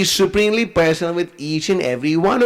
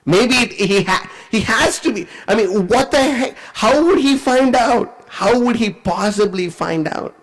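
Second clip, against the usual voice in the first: slow, higher-pitched stunned disbelief; mind blown; 6 semitones higher, slower than usual. Retold or imitated. Duryodhana thinking over how he found out, mind blown. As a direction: reason it out haltingly, astounded. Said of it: "Duryodhana's mind is blown".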